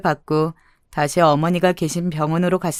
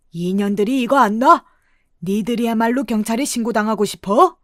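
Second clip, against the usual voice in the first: put-on indignant old man's outburst, moderately raised; angry yelling; 3 semitones higher than usual. Exposed swindler to the two women, angrily protesting. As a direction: protest in acted anger, pitch lifted. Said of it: "화를 내면서 버럭 소리를 질렀습니다".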